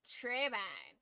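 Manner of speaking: Treban said through the nose, nasal twang; nasal, wrong-sounding Treban. Shown as a demonstration. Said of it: "a little nasally to it".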